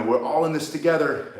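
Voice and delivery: light mock announcer read of the slogan; quoting the store announcement. Mocking the grocery store loudspeaker, light announcer tone. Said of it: "they would say, you know".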